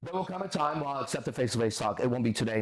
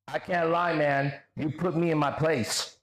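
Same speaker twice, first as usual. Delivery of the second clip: raised, drawn-out quoted concession; mocking read-out; 3 semitones higher, slower than usual. Streamer reading an opponent's sarcastic concession, mockingly. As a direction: read it out high, stretching the end.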